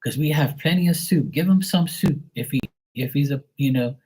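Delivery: put-on high-pitched old great-aunt voice; great-aunt quote. Great-aunt asks who this little boy is, high mock voice. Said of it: "then her sister would".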